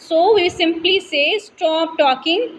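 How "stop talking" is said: slow, firm stop talking, each word pressed; emphatic command. Shown as a demonstration. Teacher silencing students, slow firm emphasis. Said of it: "and with emphasis".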